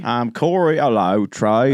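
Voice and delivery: lightly put-on Michael Caine English accent; fancy Michael Caine accent. Co-host greets his partner on air, mock Michael Caine accent. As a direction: try a hint of fancy Caine-style English. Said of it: "I just kinda went into that, this accent".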